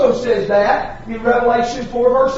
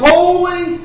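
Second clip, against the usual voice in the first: raised, ringing cry of holy, holy, holy; 4 semitones higher than usual. Retold or imitated. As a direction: call it out like the angels in worship. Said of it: "they are crying".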